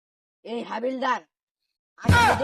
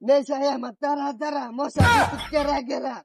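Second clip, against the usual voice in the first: put-on belligerent drunk; 3 semitones higher, 6 dB louder than usual. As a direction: shout it like a rowdy drunk. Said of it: "এরা তো মদ খাইছে".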